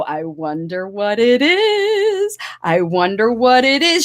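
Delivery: curious sing-song wondering. Shown as a demonstration. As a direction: wonder aloud to build suspense. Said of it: "Show them how you do it".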